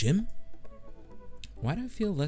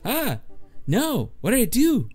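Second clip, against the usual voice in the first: playful panic; 13 semitones higher than usual. Real, not acted. Player fretting over a dating choice, high panicked whine. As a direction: squeal in dismay at your own mistake.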